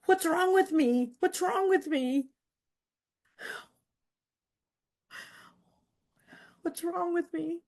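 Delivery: sinking into self-blame; self-doubt. Retold or imitated. Turning the question on herself, slow and fading. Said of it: "the question went from".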